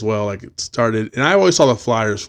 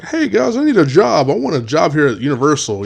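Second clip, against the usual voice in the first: put-on high-pitched young job seeker; mock-eager kid asking for work; 4 semitones higher than usual. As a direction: pipe up hopefully, imitating your younger self. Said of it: "you got this kid fresh out".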